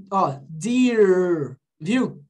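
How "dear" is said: DEAR with a long buzzing English R; drawn-out R on "dear"; vibrated R. Shown as a demonstration. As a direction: let the R of "dear" ring in the mouth. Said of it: "Eu vibrei a minha boca".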